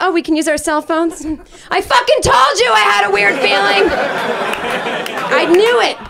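high laughing shout of vindication; mock hysterical rant on the doomed plane; hysterical I-told-you-so. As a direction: scream it, half laughing, half panicking. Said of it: "I'd be like".

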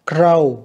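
"Grow" slowly, ending in an OH sound; long O. Shown as a demonstration. Teacher comparing OW spellings for pupils, slow long O in "Grow". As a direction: say "Grow" to rhyme with "go", drawn out. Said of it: "cũng là âm O ha".

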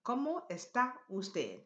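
joined into one connected phrase; teacher's connected repeat; words put together. Shown as a demonstration. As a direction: model the whole question with shorter gaps. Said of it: "Put that together".

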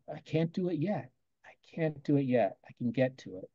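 a quiet encouraging murmur; quiet self-talk. Shown as a demonstration. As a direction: hush it down like a private reminder. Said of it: "Whisper to yourself".

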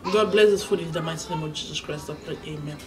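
quick grace said half to yourself; mock-solemn prayer. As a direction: pray over your food in a low, subdued voice.

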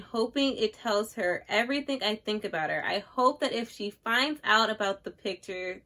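understated, measured book reading; literary read-aloud. Acted. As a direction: read the passage gently, like poetry. Reads a book passage aloud.

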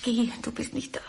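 hushed unvoiced whisper. Wife secretly calls for help, whispering. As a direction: whisper so nobody in the house hears. Secret phone call, hiding.

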